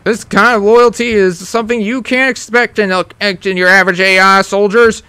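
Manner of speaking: macho voice. Acted. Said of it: "why am I still talking like this".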